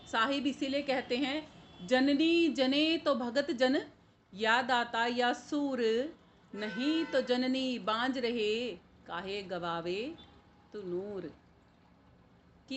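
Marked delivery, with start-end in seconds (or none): 1.9-11.4 verse recitation. Acted. Preacher quotes the saint's verse to listeners, slow recitation falling away.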